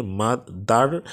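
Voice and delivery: "মা-, দার" split into two separate syllables; separado em sílabas. Shown as a demonstration. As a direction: say "মা-, দার" with a break between syllables. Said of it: "দার এটা একটা syllable".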